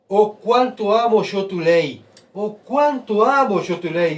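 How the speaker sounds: slow, drawn-out heartfelt recitation; slow fervent reading. Shown as a demonstration. Preacher reading the psalmist's words to the congregation, slow and fervent. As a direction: savour each word of the psalm slowly. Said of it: "pero gritando".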